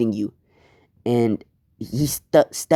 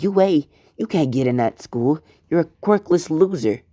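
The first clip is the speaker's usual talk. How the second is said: higher, scornful jeer; mocking classmates; 5 semitones higher than usual. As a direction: sneer it like a schoolyard bully. Classmates mock Deku.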